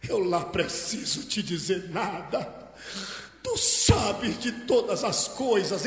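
slow, drawn-out emotional declaration; hammed-up tearful confession, without real sobbing; acted tearful cry. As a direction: stretch each word as if in tears. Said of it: "gritou, chorando".

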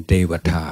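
"เทวทา" begun with a voiced d, as in deva; Pali-style d sound. Shown as a demonstration. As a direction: say "เทวทา" as dewatha, voiced d first. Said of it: "มันจะออกเสียงเป็นตัวเด็ก". (ออกเสียง "เทวทา" ขึ้นต้นด้วยเสียง ด เด็ก)

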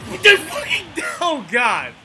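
loud, high furious shout; raging gamer. Real, not acted. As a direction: blow up at the game. Streamer raging at a bad hit.

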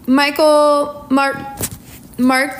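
hiccuping between names; hiccups. Real, not acted. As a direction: talk through hiccups, words cut short. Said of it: "Sorry for the hiccups".

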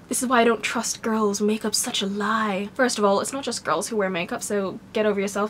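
ordinary talk

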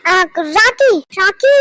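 loud shout for someone; calling out. Acted. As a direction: call the name twice for help. Calls out to someone named Rocky.

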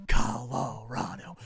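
drawn-out fake cry; mock sobbing. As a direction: wail it like mock grief. Mock sobbing rival team name.

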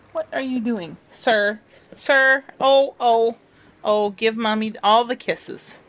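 doting dog talk. Real, not acted.

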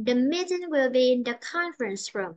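MEETING and CONFERENCE stressed, room falling; stressed content words. Shown as a demonstration. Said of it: "sẽ đọc lên giọng và mình".

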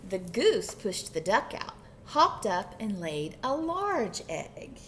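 emphatic picture-book reading; lively storytime narrator; story narration. A narrator's reading. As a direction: read to children, stretching the key words. Reads picture book aloud.

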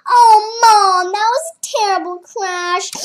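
the pod calling out to Mom. Acted. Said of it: "Says Pod".

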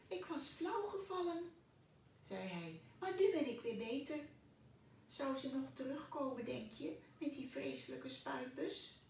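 tiny little voice. Acted. The cockroach asks Pluk for apple peel, tiny voice. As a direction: squeak it like a very small creature. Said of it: "een heel klein stemmetje".

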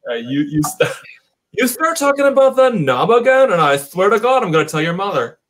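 put-on Valley Girl accent. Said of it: "Valley Girl accent".

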